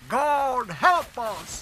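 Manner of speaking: high, slow astonished bellow. Acted. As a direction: bellow it at the man beside you. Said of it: "he bellowed to the man next to him".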